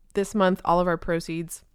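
talking with hiccups and dry mouth; dry mouth, hiccups breaking in. Real, not acted. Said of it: "I have the hiccups and, um, apparently dry mouth".

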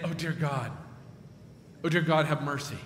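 pleading prayer that swells at Lord God Almighty; retold fervent prayer. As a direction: beg God for the baby's life. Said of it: "praying like this and praying her heart out".

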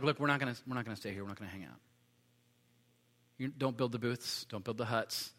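Jesus voiced quietly, gently waving off the booths; soft, calm Jesus. Jesus calmly telling Peter to head down, spoken softly. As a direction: hush it down, a gentle no.

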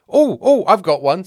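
loud, high, excited volunteering; eager interruption. Acted. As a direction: burst in like a keen pupil. Bartholomew eager to tell one.

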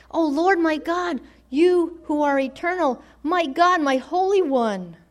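a hint of solemn proclamation; fervent prayer. Habakkuk's fervent address to God.

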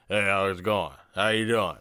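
a lightly played brash American guy hitting on a woman; breezy mock pickup line, barely changed from his own voice; casual American chat-up at a bar, lightly voiced; American bro pickup. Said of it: "let's put our voice versus his voice".

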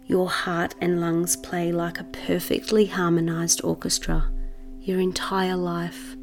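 measured meditation voice with long pauses; guided meditation. Acted. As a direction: guide the listener into settling, unhurried.

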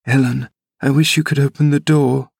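high, voiced stand-in for an anxious whisper. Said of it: "whispered back my companion anxiously".

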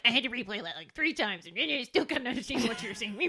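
a light imitation of dad's grouchy Australian accent. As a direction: grumble it like dad with an Australian accent. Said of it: "In his grouchy little Australian accent".

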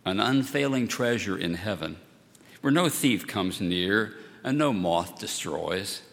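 measured, solemn reading of the gospel; scripture reading. Acted. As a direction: read it like the Sunday lesson. Reads the gospel lesson.

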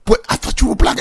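hesitant attempt at an English accent. Actor addressing the Rock, attempted English accent. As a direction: try a tentative English accent. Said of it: "That's my English accent".

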